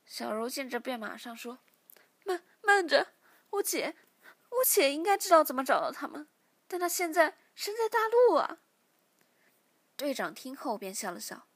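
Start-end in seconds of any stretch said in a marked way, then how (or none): 2.2-8.6 high, loud sobbing cry; much higher and louder tearful outburst; crying out desperately. Acted. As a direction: scream and sob to stop them. Captive cries out to stop torture.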